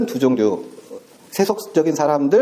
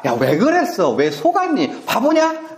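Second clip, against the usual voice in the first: mild mock scolding, jumping high on 바보냐; a parent scolding a foolish child; rebuke; 7 semitones higher than usual. God rebuking the deceived believers, mock scolding. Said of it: "라고 책망하실 일이".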